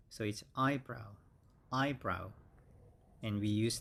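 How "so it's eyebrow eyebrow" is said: eyebrow with EYE stressed; stress on the first syllable. Shown as a demonstration. Teacher drills eyebrow, stressing the first syllable. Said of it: "stress is always on the first syllable".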